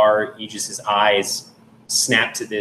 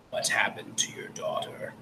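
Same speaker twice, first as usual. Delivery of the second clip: very soft whispered construct; eerie genderless whisper; reedy, genderless voice; 12 dB quieter than usual. Acted. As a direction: whisper it thinly, without any voice. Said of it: "this reedy, genderless voice".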